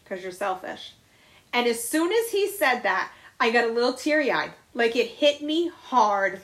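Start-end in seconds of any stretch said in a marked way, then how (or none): 0.0-1.0 quiet blunt verdict. Retold or imitated. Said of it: "looked him straight in the face and said".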